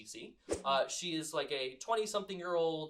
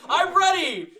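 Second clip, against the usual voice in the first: much higher, louder, cracking "I'm ready!"; squeaky panicked; 14 semitones higher, 15 dB louder, slower than usual. Acted. Confidence collapsing at the door knock, high panicked squeak. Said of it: "The deterioration of".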